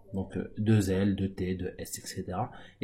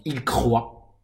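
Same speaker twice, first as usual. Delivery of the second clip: slow clear demo. Shown as a demonstration. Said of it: "c'est le verbe croire".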